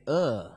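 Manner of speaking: mock groan of disgust; disgusted "ugh". Preacher voicing the congregation's unease, mock disgusted ugh. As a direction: imitate a queasy "ugh". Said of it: "se sienten un poco como que".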